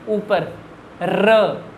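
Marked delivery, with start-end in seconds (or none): 1.0-1.6 र with the tongue tip raised and vibrating; tongue up, र rolled; trilled r demo. Shown as a demonstration. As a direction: say र with the tongue up and fluttering. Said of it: "जीभ कहाँ जा रही है".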